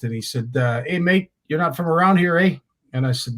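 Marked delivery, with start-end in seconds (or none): 0.9-2.6 lightly imitated Australian accent, pitched higher; a touch of Australian accent, lifted pitch; thick Australian accent. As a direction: retell it as a friendly Aussie greeting, accent lightly put on. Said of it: "a thick accent".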